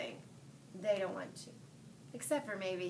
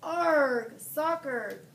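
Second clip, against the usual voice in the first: loud echoing roar; crew yell; 5 semitones higher, 9 dB louder, much slower than usual. A narrator's reading. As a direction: shout it back as a crew. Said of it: "the crew yelled".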